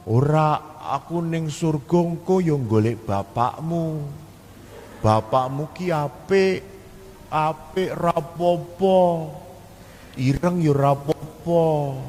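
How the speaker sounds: slow, gentle hint of the dying mother in Javanese; lightly voiced old mother. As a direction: let the mother's calm acceptance come through, slowly. Dying mother answers, retold. (ibu yang sakit menjawab anaknya dengan pelan dan lembut)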